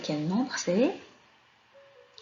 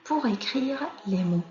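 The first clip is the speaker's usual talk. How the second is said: instruction read-out. Shown as a demonstration. Reads the exercise instruction aloud.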